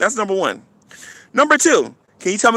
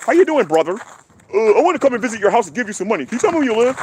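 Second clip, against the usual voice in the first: fake friendly atheist; 3 semitones higher, faster than usual. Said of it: "one of you try to go".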